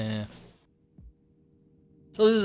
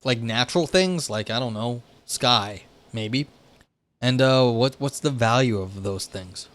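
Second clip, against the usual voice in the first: casual paraphrase voice. Retold or imitated. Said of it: "basically it's saying".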